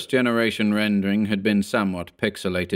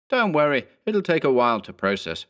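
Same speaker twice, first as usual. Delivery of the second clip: mildly reassuring, slightly raised voice; oddly soothing character line; peculiarly reassuring; 6 semitones higher than usual. A narrator's reading. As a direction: reassure him as if nothing is wrong. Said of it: "in a peculiarly reassuring tone of voice".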